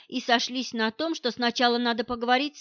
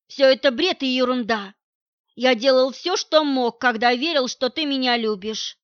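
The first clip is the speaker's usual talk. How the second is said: husband accuses partner of trapping him, loud and bitter; angry accusation; 5 dB louder than usual. Acted. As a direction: dismiss her with scorn.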